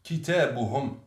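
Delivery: كتابهم said kitābuhum, every vowel said; full classical form kitābuhum; كتابهم with u before hum; classical Arabic. Shown as a demonstration. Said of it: "En arabe classique".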